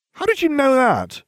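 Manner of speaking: demanding. Acted. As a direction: demand an answer right now. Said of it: "I demanded".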